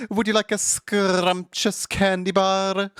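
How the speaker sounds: high, slow granny voice; sweet old granny offering candy. Retold or imitated. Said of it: "Smiling Friends, just like".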